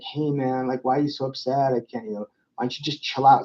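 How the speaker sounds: a lazy, too-chill response to an upset friend; too calm. Shown as a demonstration. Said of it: "wanna kill your friend".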